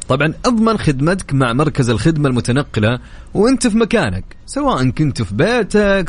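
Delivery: upbeat presenter selling a service; radio ad read. Acted. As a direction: sell it like a live radio spot. Host reads live car-service ad. (قراءة إعلان إذاعي)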